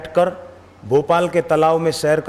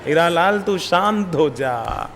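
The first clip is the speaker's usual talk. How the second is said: calming himself. Retold or imitated. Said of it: "तो मैं अपने को बोल रहा हूं".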